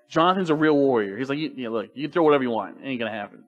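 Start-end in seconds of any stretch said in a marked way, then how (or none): 1.4-3.4 casual, low-key defiance; unafraid Jonathan. Retold or imitated. Real warrior dismisses his father's throws, calmly unafraid. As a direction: play a warrior who is mildly unimpressed. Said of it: "He's not afraid of him".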